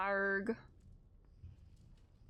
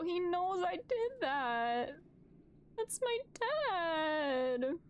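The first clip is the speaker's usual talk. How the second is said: slow, higher, moved; glowing with pride; proud and touched; 7 semitones higher, much slower than usual. Real, not acted. Proud of in-game dad.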